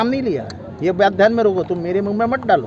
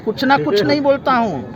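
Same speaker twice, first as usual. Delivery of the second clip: raised protest; 6 semitones higher than usual. Real, not acted. Minister rebuts reporter's claim.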